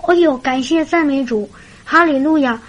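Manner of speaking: imitated relieved, joyful exclamation; sudden enlightenment. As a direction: rejoice as if it has just dawned on you. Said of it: "这个姊妹当时茅塞顿开".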